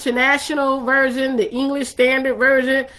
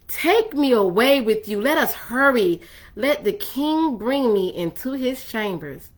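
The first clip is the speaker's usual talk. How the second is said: poetic reading. Shown as a demonstration. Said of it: "I had to say it poetically".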